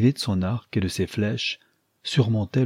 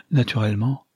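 gaily; 2 semitones higher than usual. Acted. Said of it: "ajouta-t-elle gaiement".

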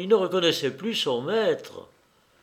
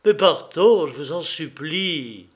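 louder on mais, then sinking into begging; Stéphane begs his teacher again; renewed plea; 4 dB louder than usual. Acted. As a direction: beg once more, the first word loud. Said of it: "Stéphane reprit".

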